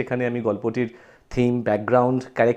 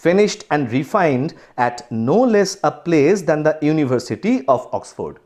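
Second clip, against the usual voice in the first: slow, deliberate textbook reading; story read-aloud; much slower than usual. Acted. Teacher reads the story to students, slow read-aloud. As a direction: read the English text out slowly and carefully.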